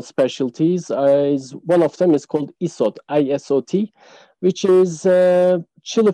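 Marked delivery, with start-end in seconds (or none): 2.6-3.9 isot, then spelled I S O T; name it, then spell it letter by letter. Shown as a demonstration.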